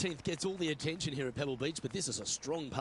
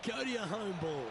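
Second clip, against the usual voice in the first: higher, pleading "Go to your home"; urging the ball; 5 semitones higher than usual. Real, not acted. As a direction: coax the rolling ball home.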